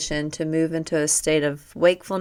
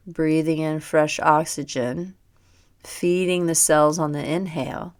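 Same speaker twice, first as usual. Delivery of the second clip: even, unhurried body-scan voice; measured yoga nidra narration with pauses; guided meditation. Real, not acted. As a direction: calmly guide attention through the body. Guides body awareness on breath.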